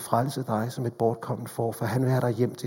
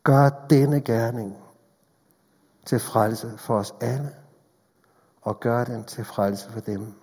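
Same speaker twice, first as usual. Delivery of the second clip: closing prayer. Acted.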